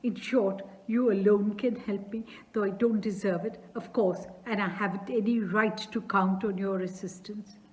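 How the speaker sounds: a touch of nervous fluster; flustered excitement. Acted. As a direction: trip over the words in a rush. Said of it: "I'm awfully excited".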